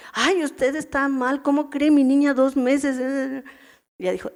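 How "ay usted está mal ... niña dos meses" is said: slow, raised protest against the doctor; indignant protest. Retold or imitated. Mother refusing to believe the doctor, slow indignant protest. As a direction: drag out ay in disbelief, then push it higher.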